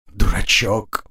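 a weak smile in the voice; lightly indulgent, faintly smiling; gentle chiding through a faint smile. A narrator's reading. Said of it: "слабо улыбнулась Лариса".

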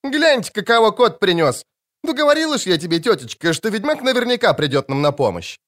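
put-on a cocky young girl crowing I told you so; cheeky girl. A narrator's reading. Angoulême crowing at rescue. (нахальная девчонка, голос гораздо выше)

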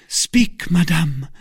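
high, forceful command; energetic demand. A narrator's reading. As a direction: demand an answer with sudden energy. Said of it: "with an energy of which".

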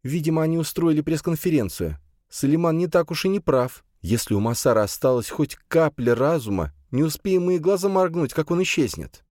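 worried woman, lightly voiced; lightly voiced Camille, worried. A narrator's reading. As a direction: Camille fretting about the leak.

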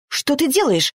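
sharp, high outraged cry. A narrator's reading. Arina confronting Maksim as he grabs her horse, outraged high cry. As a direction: snap at him in indignation. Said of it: "возмутилась Арина".

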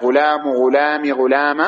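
"غلام" as ghulamu, ghulami, ghulama; vary the last vowel of "غلام": u, i, a; three vowel endings. Shown as a demonstration. Teacher explaining the three forms, "غلام" ending u, i, a. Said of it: "يا غلام بالثلاث".

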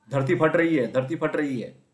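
loud, high, running-away panic; panicked shout. A narrator's reading. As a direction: yell the alarm while fleeing. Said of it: "चिल्लाने लगा". (घबराकर चिल्लाना)

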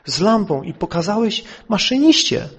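firm, pressing retold question; lightly acted judge demanding an answer; insistent judge. (stanowcze, dobitne pytanie sędziego)

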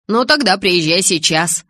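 understated eager outburst; exclaiming. A narrator's reading. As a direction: urge her over, mildly excited. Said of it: "воскликнул Джейк".

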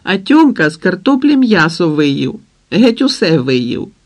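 put-on high, loud little boys tattling; mother hears small boys complaining, high and loud; kids shouting over each other. A narrator's reading. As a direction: shout it like an eager small child telling on his brother. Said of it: "Кричали наввипередки".

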